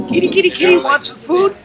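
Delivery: very high-pitched little troll voice; little troll's high sing-song cat call; teasing troll. Acted. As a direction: tease and coax in a high falsetto, as if calling a cat. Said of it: "And then the troll goes".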